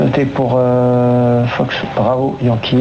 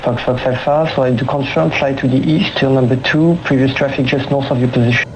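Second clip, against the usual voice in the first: air traffic control radio. Real, not acted. Controller speaking over cockpit radio.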